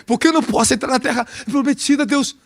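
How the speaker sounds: Moses pleading high, up in pitch. Acted. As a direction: beg God as Moses would, high and plaintive. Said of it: "Moisés tava falando com Deus". (Moisés suplicando em voz aguda)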